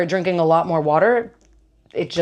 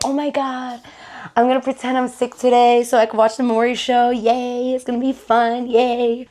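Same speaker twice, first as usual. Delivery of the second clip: put-on higher, giddy child voice as her eight-year-old self; excited little kid; 5 semitones higher than usual. Remembering her eight-year-old self, giddy child voice. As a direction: squeal it like a kid skipping school. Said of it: "waking up like I'm eight years old again".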